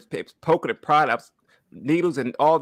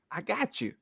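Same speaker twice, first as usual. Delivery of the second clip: soft whisper; 4 semitones higher, 10 dB quieter than usual. Retold or imitated. God's voice retold softly.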